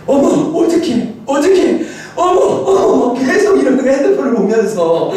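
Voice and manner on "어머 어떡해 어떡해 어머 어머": imitated flustered exclamations; alarmed wife. Wife in the back seat staring at her phone, alarmed. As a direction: mimic a wife fretting in sudden alarm. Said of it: "아내가 뒤에서 갑자기".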